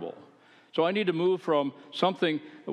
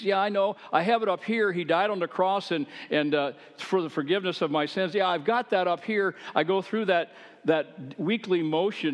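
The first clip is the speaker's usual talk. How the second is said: dismissive churchgoer; 5 semitones higher than usual. Retold or imitated. Voicing a complacent churchgoer.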